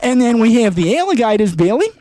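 mock Aussie wildlife presenter; Australian accent. Robert Irwin explaining crocs on a talk show, light Aussie accent. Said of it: "Oh, good day, mate".

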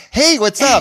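high, loud impression of her hello; mock bold greeting. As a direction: burst out with a big bar greeting. Imitating her bar greeting.

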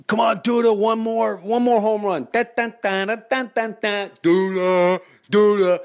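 high, loud stadium cheering and chanting. Retold or imitated. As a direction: urge the batter on like a fan. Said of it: "cheering Duda at bat".

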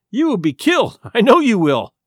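mild sob in the voice, pleading; a touch of tears, pleading with her friend; sobbing plea. Acted. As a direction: beg him not to go, tearfully. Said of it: "she sobbed".

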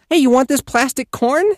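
bouncy high-pitched greeting; talking to toddlers. Retold or imitated. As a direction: offer it eagerly to a little kid. Offers toy to toddler.

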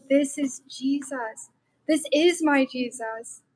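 slow, hushed wonder; tender realization. Retold or imitated. Recalling hugging the homeless man, slow and tender. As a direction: let the love slow every word. Sudden love while hugging him.

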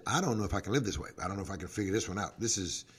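honest prayer dropping to near silence; quiet prayer. Retold or imitated. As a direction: murmur the struggle as a private prayer. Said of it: "stop and pray and say".

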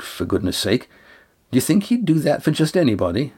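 mildly insistent, pitch lifting on key phrases; a hint of earnest scolding to reassure; lightly voiced firm Lindy. Lindy reassures Estrella that the others chose to come, mildly insistent.

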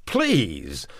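a desperate please; begging. Acted. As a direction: beg him not to leave. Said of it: "begged the man".

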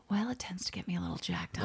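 breathy exasperated whisper. Real, not acted. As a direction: sigh it out under the breath. Exasperated sigh about killer's entitlement.

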